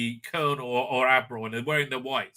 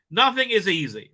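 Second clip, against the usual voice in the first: hammed-up lament, raised in pitch and volume; mock crying out; 5 semitones higher, 5 dB louder than usual. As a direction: play at despairing complaint. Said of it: "she cried".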